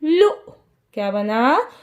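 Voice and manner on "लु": लु said as one short l plus u; short u syllable. Shown as a demonstration. Teacher adds the small matra, short syllable. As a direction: end लु on a brief u. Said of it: "तो क्या बना?".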